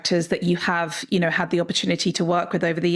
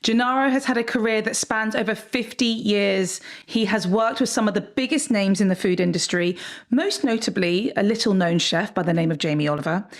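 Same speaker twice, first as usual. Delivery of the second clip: lively scripted host welcome, lightly announced; podcast intro read. Acted. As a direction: introduce the guest like a show opener.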